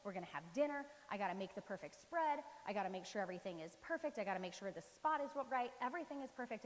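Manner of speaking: lightly acted fussing Martha, one item after another; a mild flurry of must-do worries; frazzled hostess. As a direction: run through the list like a harried host. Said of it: "she's running around. She's trying to make the place perfect".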